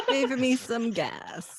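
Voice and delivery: slow, laughing mock villain line; laughing villain imitation. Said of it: "you had to use your villain voice".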